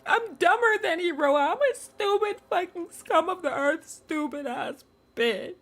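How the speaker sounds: loud, high frustrated self-scolding; upset rant. Real, not acted. Streamer berating herself after a wrong vote, loud and high. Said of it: "I'm so fucking upset".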